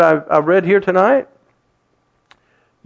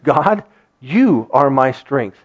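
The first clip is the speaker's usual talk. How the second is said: slow, lower, earnest prayer; quiet declaration; 4 semitones lower, slower than usual. Shown as a demonstration. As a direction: say it with resolve. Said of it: "grit our teeth and just".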